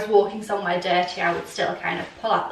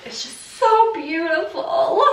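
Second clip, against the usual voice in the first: laughing; 6 semitones higher than usual. Real, not acted. Gushing over favourite dress.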